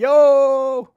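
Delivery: excited yo. Real, not acted. Greeting a viewer by name.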